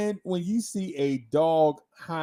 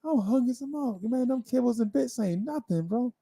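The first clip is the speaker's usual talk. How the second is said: hungry dog voice; 5 semitones higher, 5 dB quieter, faster than usual. Retold or imitated. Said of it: "the dog like".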